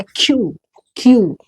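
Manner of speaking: "क्यू" as a drawn falling kyoo; correct letter Q. Shown as a demonstration. Teacher modelling the letter Q for pupils, correct reading. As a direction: say "क्यू" alone, carefully, as the model. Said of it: "तो क्यू नहीं है क्या".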